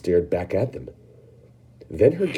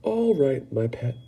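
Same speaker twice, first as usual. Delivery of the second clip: calm a tantrum; soothing Mrs Salt; 6 semitones higher, slower than usual. Acted. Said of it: "Missus Salt said soothingly".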